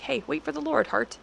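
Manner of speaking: mild, kindly nudge to one's own heart; gentle encouragement. Retold or imitated. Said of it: "I can say that to my heart".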